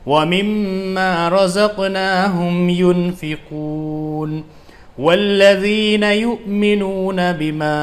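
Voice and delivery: slow, melodic tajweed chant, words joined; fluent Quran recitation. Shown as a demonstration. Teacher shows students how to recite fluently, slow melodic chant. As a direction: recite it smoothly and musically after the spelling drill. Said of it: "اب اس کو ملا کر ہم ایسے پڑھیں گے".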